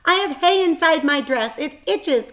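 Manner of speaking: put-on high, loud complaining girl; calling out. A narrator's reading. Fern calls out about the itchy hay, loud. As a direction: call it across the barn. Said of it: "called Fern".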